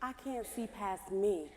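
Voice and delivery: sad. Acted. Despairing reply, slow and soft.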